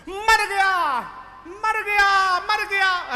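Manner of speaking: high, loud repeated cry; panicked yelling. Acted. Fleeing demons yelling at Ravana's court, panicked shout. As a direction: scream it as you run in terrified. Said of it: "दरबार के बाहर से चिल्लाने लगे".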